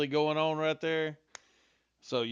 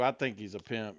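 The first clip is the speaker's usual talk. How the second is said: dry sarcastic agreement; 3 semitones lower than usual. Acted. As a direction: say it sarcastically, deadpan. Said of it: "You aware I'm being sarcastic".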